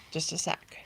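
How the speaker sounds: holding back a sneeze; pausing mid-sentence to sneeze; about to sneeze. Real, not acted. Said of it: "Excuse me, I'm gonna sneeze".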